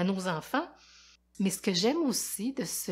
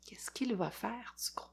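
put-on hushed whisper to the children; 3 semitones higher, 10 dB quieter than usual. A narrator's reading. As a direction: lean in and whisper the question. Secret question to the kids. (chuchoté aux enfants, plein de suspense)

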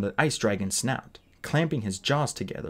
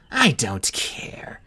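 cold whisper; much slower than usual. A narrator's reading. Queen cuts him off.

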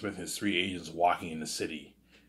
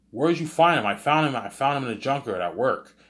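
higher, louder, insistent acted back-and-forth; lightly acted argument, voice raised; heated marital exchange; 6 semitones higher, 6 dB louder than usual. Husband and wife argue over a found baby, mildly heated.

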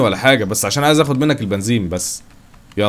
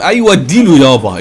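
loud, stretched, higher-pitched cheer; egging on; 4 semitones higher, 8 dB louder than usual. Real, not acted. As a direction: holler encouragement at a reckless driver. Egging on a reckless driver. (تشجيع بصوت عالي وممطوط)

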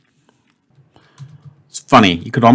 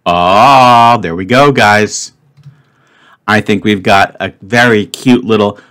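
excited; 4 dB louder, slower than usual. Real, not acted. Thinks Wordle is solved.

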